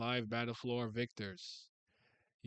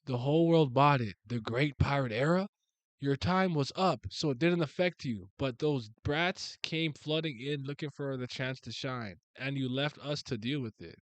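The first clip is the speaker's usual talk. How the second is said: voicing a manga villain; 4 dB louder than usual. Reading manga dialogue aloud.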